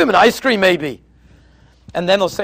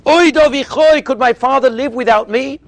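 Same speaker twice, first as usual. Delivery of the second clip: Yosef's rebuke; 4 semitones higher, 5 dB louder than usual. Retold or imitated. Yosef rebuking his brothers.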